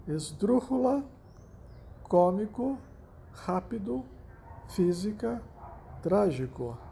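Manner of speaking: "Esdrúxula, cômico, rápido, física, trágico" each stressed on the third-last syllable; stress on antepenultimate syllable. Shown as a demonstration. Teacher listing esdrúxulas examples, antepenultimate syllable stressed in "Esdrúxula" through "trágico". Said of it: "a sílaba tônica recai na antepenúltima sílaba".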